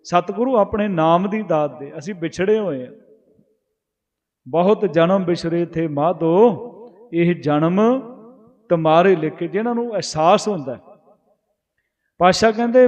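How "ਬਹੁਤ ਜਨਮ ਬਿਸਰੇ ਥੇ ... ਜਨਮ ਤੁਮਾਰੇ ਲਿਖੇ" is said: slow scripture recitation. Acted. Preacher reciting gurbani verse to the congregation, slow and reverent. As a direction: chant the verse slowly, each phrase drawn out.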